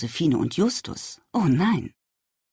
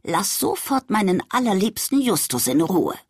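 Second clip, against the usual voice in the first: commanding grandma; 3 semitones higher than usual. Acted. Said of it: "befahl sie".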